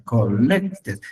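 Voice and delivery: "collected" said col-LEC-ted; second-syllable stress. Shown as a demonstration. Teacher repeats the correction, stressing the second syllable. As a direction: lean on the middle syllable of "collected". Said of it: "en la segunda sílaba".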